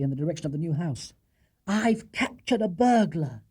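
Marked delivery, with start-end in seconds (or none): 1.7-3.4 announcing. Acted. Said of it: "he announced".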